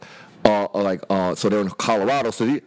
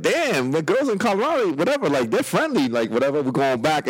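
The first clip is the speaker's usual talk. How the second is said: excited; 3 semitones higher than usual. Retold or imitated. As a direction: pitch up with delight at the girls. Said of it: "I was like".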